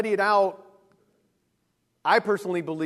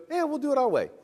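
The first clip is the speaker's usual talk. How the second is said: higher-pitched, offhand brush-off; mock dismissive; 5 semitones higher, much faster than usual. Preacher voices everybody after Noah, mock dismissive. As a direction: imitate people casually shrugging God off. Mankind brushing God off in retelling.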